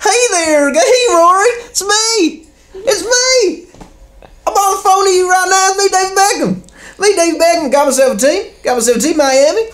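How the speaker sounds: comic David Beckham phone call voice; David Beckham impression. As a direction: do a breathy-free high London footballer voice. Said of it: "It's a fantastic accent".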